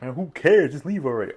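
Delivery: high, loud mock-bored heckle; impatient fans telling him to wrap it up; impatient viewer. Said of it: "y'all just like".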